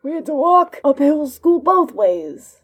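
put-on high, slow, loud old geezer complaining; cranky old man. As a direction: grumble like a grandpa about the old days. Old man impression continued.

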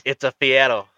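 "Fiero" said with a tapped, d-like r; imitated Guy Fieri pronunciation. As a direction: say "Fiero" as "Fee-eddo". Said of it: "that's how Guy Fieri pronounces".

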